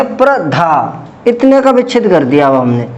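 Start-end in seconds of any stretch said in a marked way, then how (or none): 0.0-1.0 slow, deliberate blending of the syllables. Shown as a demonstration. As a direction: join the sounds slowly for the class. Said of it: "तो क्या बन गया?". (धीरे से जोड़कर बोलना)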